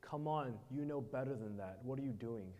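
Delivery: put-on a father kindly chiding his kids; soft and gentle. Jesus gently asking his tired disciples, soft and fatherly. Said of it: "his tone is soft and gentle".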